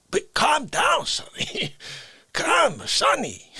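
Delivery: hushed whisper to calm him. Acted. Calming Sonny down with a hushed whisper. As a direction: whisper it like a soothing aside.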